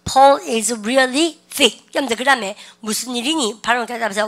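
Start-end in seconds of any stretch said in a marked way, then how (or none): 0.1-1.8 very slow, louder model sentence; slow model read. Shown as a demonstration. Teacher modelling slang for students to repeat. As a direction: drag it out loud for the class. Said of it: "시죠".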